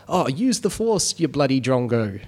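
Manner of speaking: slow, lightly hammed Australian accent; an Aussie Jedi teasing a mate; mock Australian accent. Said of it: "worst Australian accent ever".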